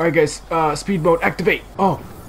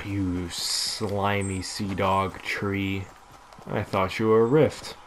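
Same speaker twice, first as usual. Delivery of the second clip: put-on pirate accent; 4 semitones lower, 5 dB quieter, slower than usual. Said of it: "why do I keep doing that accent".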